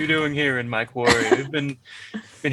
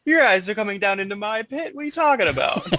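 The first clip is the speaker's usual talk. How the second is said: put-on old prospector; 7 semitones higher than usual. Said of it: "the grizzled old prospector".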